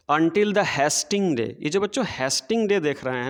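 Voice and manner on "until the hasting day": very slow, measured verse reading; poem recitation. Shown as a demonstration. Teacher reading poem to children, slow recitation. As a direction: read the line out word by word for the class.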